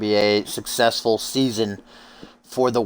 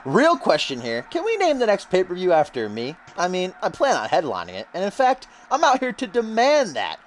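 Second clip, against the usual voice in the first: high-pitched, demanding wrestler promo; Russell Pontarelli; 9 semitones higher than usual. Acted. Commentator voices the newcomer demanding top billing, cocky wrestler voice. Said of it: "Russell says".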